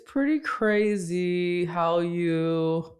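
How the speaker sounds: slow, dry, sarcastic deadpan; Chelsea Peretti deadpan. Retold or imitated. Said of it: "I was trying to do a Chelsea impression".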